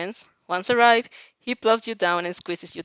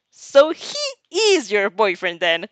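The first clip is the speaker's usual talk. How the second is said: surprised; 6 dB louder than usual. Acted. Mina shocked asking.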